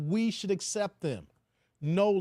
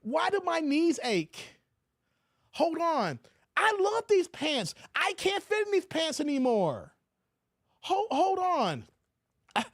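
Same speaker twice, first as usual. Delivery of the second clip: mock bewildered whine; 6 semitones higher than usual. Mock confused overweight person.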